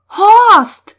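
high, very loud alarmed scream; startled, piercing cry. A narrator's reading. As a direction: scream the name in sudden shock. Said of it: "schrie Ulrich auf".

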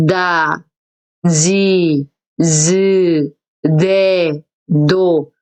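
탁음 다행 시범; voiced da row. Shown as a demonstration. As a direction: model 다 지 즈 네 도. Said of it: "이렇게 발음을 하시면 돼요".

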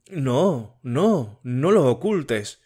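a hint of an anxious girl pleading; Matilde voiced. Matilde insists.

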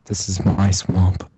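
low, slow ogre voice; Shrek. Acted. Ogre growls to a dying man, low and slow. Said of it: "I'd have Shrek run up".

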